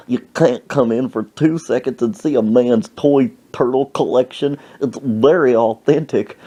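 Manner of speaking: lightly voiced old man; a touch of old-man indignation; affronted old man. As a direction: imitate an offended elderly collector. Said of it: "That's how he talked".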